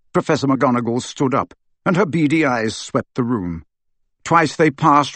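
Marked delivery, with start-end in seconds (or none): none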